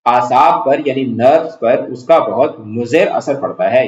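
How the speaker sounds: ordinary talk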